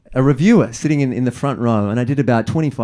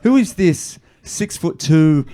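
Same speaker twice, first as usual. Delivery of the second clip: incredulous inner voice; 8 semitones higher than usual. Retold or imitated. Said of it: "I couldn't help but think".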